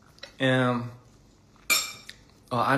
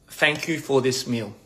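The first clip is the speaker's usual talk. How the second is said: slow careful English. Shown as a demonstration. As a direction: say it slowly for a learner. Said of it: "How do I say".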